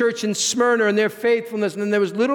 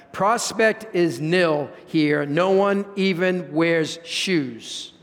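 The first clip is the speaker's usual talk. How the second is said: slow, deflated salesman; slow glum report; much slower than usual. Retold or imitated. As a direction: drag out the bad news, mildly gloomy.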